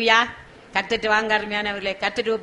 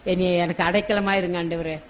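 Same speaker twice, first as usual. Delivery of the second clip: soft, understated prayer of entreaty; tearful plea, acted; 5 dB quieter than usual. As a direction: plead softly with God, no real crying. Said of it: "கண்ணீரோடு கேட்போம்".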